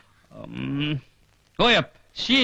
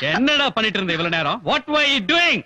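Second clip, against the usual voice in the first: scolding. Acted. Boss scolds late servant.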